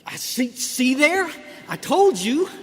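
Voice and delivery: slow, loud and high, laughing as he says it; laughing gloat. Real, not acted. Speaker gloating to the crowd, laughing loudly. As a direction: crow with a laugh, told-you-so. Gloats at his own point.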